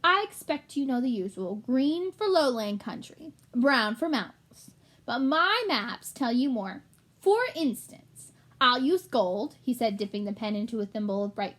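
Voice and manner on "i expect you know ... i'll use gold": fussy little rat, raised pitch; a pompous little shopkeeper rat. Acted. Gilbert explains, slowed.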